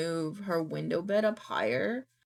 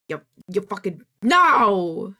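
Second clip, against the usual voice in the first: louder mock protest at the dog; mock yell; 7 dB louder, slower than usual. Remembering dogs sneezing into her mouth, mock yelled no. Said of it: "and I'd be like".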